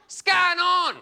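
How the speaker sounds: "What's going on" squashed into a high, loud "Scar non"; two-syllable slang. Shown as a demonstration. Comic showing efficient Aussie greeting, "Scar non" loudly run together. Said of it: "I'll knock that off in two".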